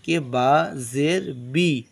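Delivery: slow बी with a long ee; drawn out बा ज़ेर बी, ending on ee; teaching the ee sound in बी; maruf vowel. Shown as a demonstration. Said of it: "मारूफ किसे कहते हैं".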